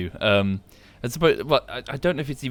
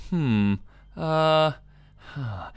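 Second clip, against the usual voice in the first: mock thinking hums; 5 semitones higher, much slower than usual. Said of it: "You can hear him thinking".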